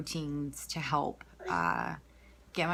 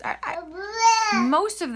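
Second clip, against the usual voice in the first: hiccuping mid-sentence; talking through the hiccups; 8 dB louder, much slower than usual. Real, not acted. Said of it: "I have the hiccups".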